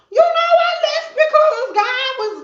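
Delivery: high, slow, fake-sweet voice. Explaining why she left, in a fake-sweet high voice. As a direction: put on a phony holy act. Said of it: "be fake and be like".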